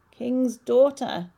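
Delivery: slow, loud croaking frog. Acted. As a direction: call her like a croaking frog. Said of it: "It spoke in a croaking voice".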